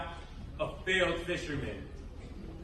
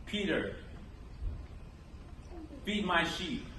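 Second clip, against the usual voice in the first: soft, unhurried reassurance; gentle; 7 dB quieter than usual. A narrator's reading. Jesus reassures Peter, hands on his shoulders, gently. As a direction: say it quietly, with tender pauses. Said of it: "the master's voice is gentle".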